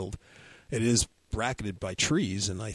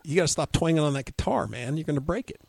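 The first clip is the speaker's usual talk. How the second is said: teasing Mike; 4 semitones higher than usual. Retold or imitated. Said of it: "So Mike started going".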